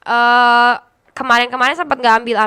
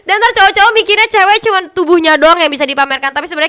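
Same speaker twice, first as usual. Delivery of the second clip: half-serious lecture to camera; mock scolding; 3 dB louder than usual. Streamer lectures women streamers on their worth, mock scolding. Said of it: "Oke, gua marahin ya".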